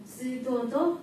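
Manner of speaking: mild Fukuoka-dialect example. Shown as a demonstration. Student giving the audience an example, Fukuoka dialect. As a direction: say it with a slight Fukuoka lilt. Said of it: "福岡の友達はよく".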